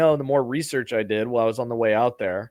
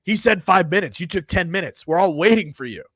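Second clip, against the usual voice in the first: higher, louder scolding; scolding Russian woman; 5 semitones higher, 4 dB louder than usual. Retold or imitated. Russian woman scolding the late passenger, higher and louder. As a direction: tell the latecomer off. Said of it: "she goes".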